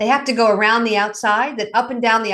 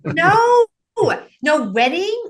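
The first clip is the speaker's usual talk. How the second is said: mock wail; 6 semitones higher, much slower than usual. Counselor mimics a client whining about sugar, mock crying. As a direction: fake a tearful protest, going high.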